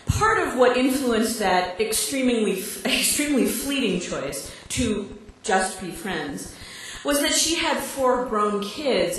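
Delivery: measured reading of a personal essay to an audience; monologue reading. Real, not acted. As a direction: deliver a written comic monologue, each phrase set out for laughs. Reads her written monologue to audience.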